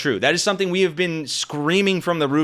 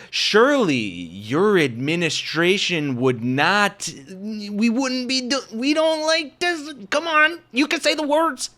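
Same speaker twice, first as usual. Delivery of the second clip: stretched-out, high-pitched coaxing imitation; hammed-up coaxing, drawn out and climbing high; mock coaxing; 5 semitones higher, slower than usual. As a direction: slowly nudge him along like a helper prompting the answer. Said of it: "another example of someone coaxing him".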